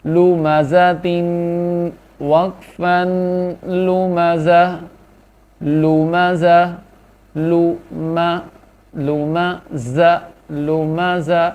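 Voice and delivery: لمزة read slowly, ending without the تا sound; slow lesson drill; slow syllable reading. Shown as a demonstration. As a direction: draw out لمزة and drop the final تا. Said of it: "تا ختم ہو جائے گی".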